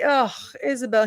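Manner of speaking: imitating an exasperated boss's weary groan; exasperated eye-roll. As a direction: groan the name as if rolling your eyes. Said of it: "he's literally rolling his eyes back".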